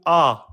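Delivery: a said full from the back; emphatic vowel. Shown as a demonstration. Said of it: "on va prononcer plutôt".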